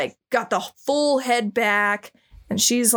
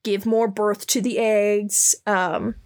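corporate manager voice. Retold or imitated. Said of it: "like, a manager at Verizon".

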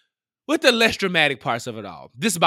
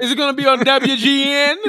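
laughing; 9 semitones higher, 4 dB louder than usual. Real, not acted. Laughing mockery.

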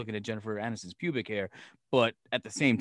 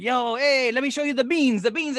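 high, eager tour-guide voice, pitched way up; excited Italian host; 10 semitones higher, 4 dB louder than usual. Retold or imitated. Mimicking Stanley Tucci showing off the market beans, high and eager. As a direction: hype up the beans like a gushing host. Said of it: "he's like".

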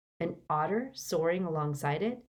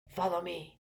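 softer hushed command; whispered; 6 dB quieter than usual. A narrator's reading. Harry to the terrified Muggleborns, whispered. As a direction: whisper it to the frightened group. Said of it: "he whispered to the group".

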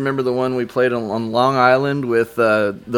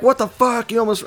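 mock outraged yell; 10 semitones higher than usual. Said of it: "They're like".

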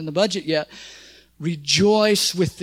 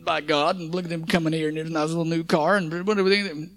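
pouty voice; 4 semitones lower than usual. Retold or imitated. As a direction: whine like a sulking child. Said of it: "That's my pouty voice".

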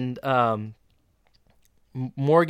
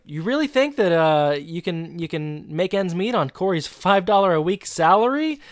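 incredulous; 4 semitones higher than usual. Retold or imitated. Retold dad doubting the couple's plan.

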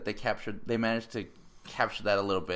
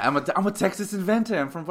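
mock Boston-Texan accent; 8 semitones higher, 4 dB louder, faster than usual. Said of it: "Boston trying to pose as a Texan".

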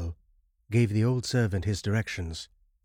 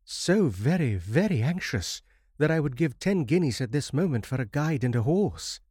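higher, louder, desperate urging; eager plea; 6 semitones higher, 3 dB louder than usual. A narrator's reading. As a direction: beg for help in a rush of feeling. Desperate traveller begs for a guide.

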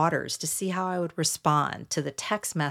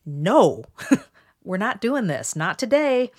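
loud "No", then a laugh and higher refusal; firm self-stopping; 4 semitones higher, 5 dB louder than usual. Retold or imitated. Woman stopping herself from fawning, firm refusal. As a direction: shut it down emphatically, half laughing. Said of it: "I stopped myself".

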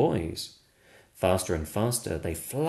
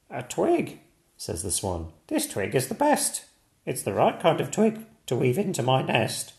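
higher, pleased swan voice; lightly voiced swan; 4 semitones higher than usual. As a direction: claim the twig proudly.

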